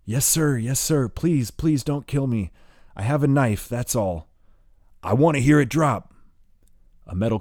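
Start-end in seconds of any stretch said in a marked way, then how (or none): 0.0-4.3 high, pleading voice raised in fear; terrified pleading. Acted. Wounded boy begging the gunmen not to kill him, terrified. 5.0-6.1 high, loud command; barked order. Acted. Gunman ordering the boy to drop the knife, loud.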